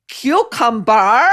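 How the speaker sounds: put-on Spanish accent, halting on the word; exaggerated Spanish-accented word search; mock Spanish accent. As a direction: mimic a fake Spanish accent, drawing out cucumber. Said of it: "slight Spanish accent".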